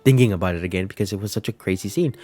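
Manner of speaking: choking up. Real, not acted. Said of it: "I'm choking up".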